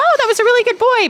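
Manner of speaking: very high-pitched, praising voice. Speaker demonstrates praising a dog, in a high-pitched voice. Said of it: "talking in a high-pitched voice".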